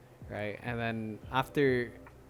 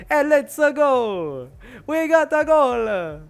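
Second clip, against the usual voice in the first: much higher and louder hammed-up victory cheer; mock celebration; 11 semitones higher, 10 dB louder, slower than usual. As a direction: scream it like a player who just won the cup. Italian player celebrating.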